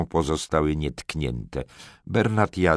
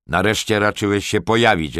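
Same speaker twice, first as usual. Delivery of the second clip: raised, louder lordly reproach; wyrzut; 5 semitones higher, 6 dB louder than usual. A narrator's reading. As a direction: rebuke a tardy underling. Lord rebukes groom for lateness. (władczy, głośny wyrzut)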